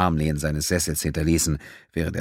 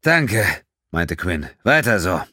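loud thanks; 4 dB louder, slower than usual. Acted. Pilot yells thanks over storm.

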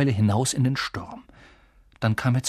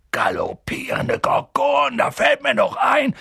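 plötzlicher Einfall; 11 semitones higher, 4 dB louder than usual. A narrator's reading. Hagrid fällt etwas plötzlich ein.

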